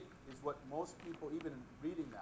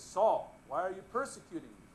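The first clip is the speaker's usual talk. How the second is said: voice of Jesus; 3 semitones higher, 5 dB louder than usual. Acted. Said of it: "So this voice says".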